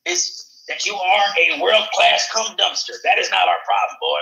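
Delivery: put-on a touch of a drawling good ol' boy, scornful; lightly voiced redneck scolding. Scolding Chris for dick talk, a hint of redneck. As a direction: chew him out like a country boy, lightly.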